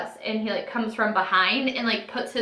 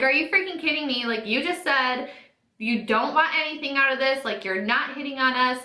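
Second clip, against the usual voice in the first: mildly outraged, raised pitch; indignant disbelief; 4 semitones higher than usual. Retold or imitated. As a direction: retell calling him out, incredulous. Retold indignant reply to his condition.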